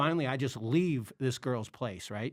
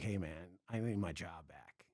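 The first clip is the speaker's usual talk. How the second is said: sheepish plea; 6 semitones lower, 8 dB quieter than usual. Retold or imitated. Sheepishly asking for job back.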